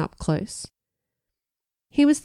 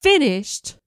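bellowing; 8 semitones higher than usual. A narrator's reading. Brian hears she is dumping him, bellowing. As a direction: roar the word in disbelief. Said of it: "Brian bellowed".

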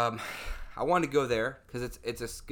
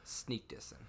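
breathy whispered tease; whispering a cheeky jab to the co-host; whispered aside; 2 semitones lower, 12 dB quieter than usual. Real, not acted. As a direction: drop to a sly whisper. Teasing aside about a friend.

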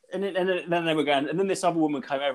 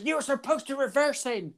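mock Northern Ireland accent; 9 semitones higher, 5 dB quieter than usual. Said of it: "speaking in a Northern Ireland accent".

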